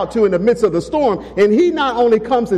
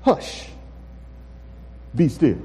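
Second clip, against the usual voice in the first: soft, slow, sleepy calm command; drowsy hush; 2 semitones lower, 7 dB quieter, slower than usual. Acted. Just-woken Jesus calmly hushing the storm, soft and slow. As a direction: quietly settle the storm. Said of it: "looked at them for and said".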